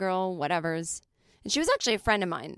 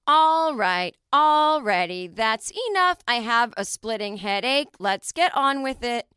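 loud, high, stiff schoolgirl line reading; bad acting; 4 semitones higher, 7 dB louder, slower than usual. Shown as a demonstration. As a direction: overact it like a wooden child actor. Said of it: "she delivered it like this".

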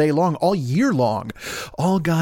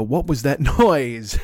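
exaggerated asking; slower than usual. Mocking himself stopping the show.

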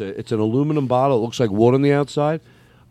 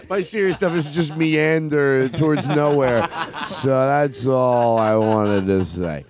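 laughing; 3 semitones higher, slower than usual. Real, not acted. Laughing at own failed serious bit.

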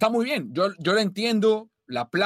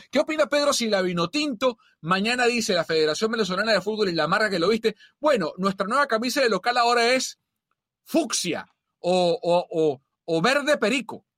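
all in one breath; 4 semitones higher than usual. Real, not acted. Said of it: "cálmate".

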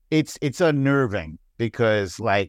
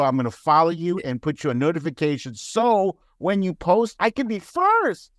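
1 mock eager fan; 5 semitones higher than usual. Voicing an eager follower.

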